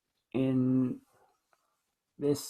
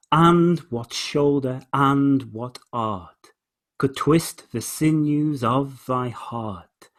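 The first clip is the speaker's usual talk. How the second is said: slow, measured recital; poem reading; much slower than usual. Shown as a demonstration. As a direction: read the stanza with weight, very slowly. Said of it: "I'll read it again".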